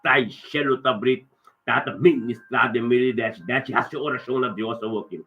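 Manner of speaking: brisk, insistent prayer in rolling phrases; fervent prayer. Real, not acted. Pastor praying a blessing over the listeners' homes, fervent prayer. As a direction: pray it out with steady urgency.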